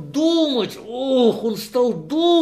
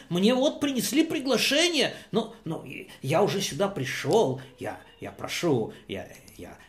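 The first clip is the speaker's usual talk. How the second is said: pleading guest; 2 semitones higher, 4 dB quieter, faster than usual. Acted. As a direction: stammer and beg not to be shamed. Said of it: "Он сказал ему".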